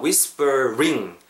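WHISPERING drawn out slowly, with an R in the final ring; slow teacher's model of "whispering"; careful pronunciation. Shown as a demonstration. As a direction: stretch out "whispering", syllable by syllable, R on ring. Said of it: "R 사운드 들어가지고 뒤에 ring".

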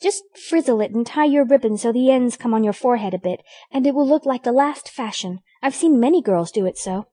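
put-on lightly girlish, high-pitched reassurance; helpful little sister, mildly soothing; consoling. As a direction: console your sister briskly. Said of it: "said Amy consolingly".

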